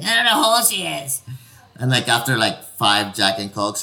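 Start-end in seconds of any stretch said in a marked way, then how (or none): 0.0-1.2 laughing mock quote. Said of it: "She was like".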